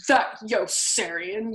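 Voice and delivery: very slow echo of their drawl; mocking echo. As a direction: throw it right back at them. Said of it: "Yossarian echoed".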